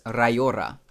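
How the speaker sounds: "rajora" slowly sounded out; "rajora" said slowly and carefully; demonstrated Swedish word. Shown as a demonstration. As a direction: model "rajora" slowly for a learner. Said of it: "you wanna say rabbit? It's rajora".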